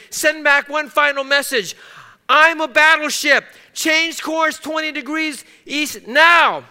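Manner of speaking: a captain pulling rank at full volume; furious shout. Retold or imitated. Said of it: "He shouted to the signalman".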